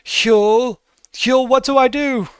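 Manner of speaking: high, loud, frantic calling out; panicked Elzerna. Acted. Elzerna calls to Hyul in the mist, high and panicked. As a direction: cry for help, high and urgent. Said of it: "you hear Elzerna say".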